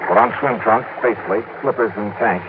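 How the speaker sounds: crisp detective voiceover, telling the listener; steady first-person detective narration; story narration. A narrator's reading. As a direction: narrate it like a hard-boiled radio detective. Detective narration over music.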